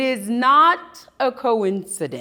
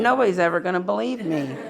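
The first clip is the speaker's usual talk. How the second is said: laughing while quoting. Real, not acted. Retelling filming the balloon.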